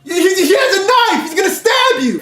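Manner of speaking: high, urgent shout; retold warning yell. He yells to warn his friend about the knife, high urgent shout. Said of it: "and I yell".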